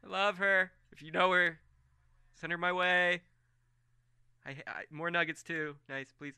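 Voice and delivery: high, sing-song friendly voice; goofy Bradley. Acted. Bradley cheerfully greeting Colm in a high goofy voice. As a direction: play him dopey and cheerful.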